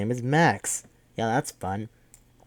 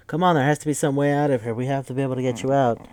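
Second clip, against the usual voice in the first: rushed, a bit louder, pleading fast; urgent pleading; 3 semitones higher, 4 dB louder, faster than usual. Retold or imitated. Quick, urgent mock pleading. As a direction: Kate begging the colonel to escape, fast urgent plea. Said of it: "Kate goes like".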